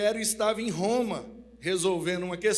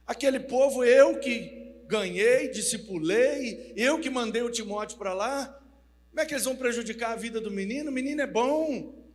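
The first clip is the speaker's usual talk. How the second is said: loud, indignant outburst, a touch higher; Paul defending his disciple, loud; 4 semitones higher, 4 dB louder than usual. Acted. (Paulo indignado, falando alto)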